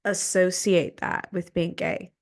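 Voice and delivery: retold angry challenge to a friend; heated confrontation. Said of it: "I confronted him".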